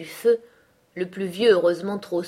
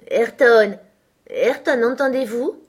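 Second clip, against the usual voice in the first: louder, higher insistent calling; 5 semitones higher, 7 dB louder, slower than usual. A narrator's reading. Catherine calling her silent cousin, louder and higher. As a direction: call his name to make him listen.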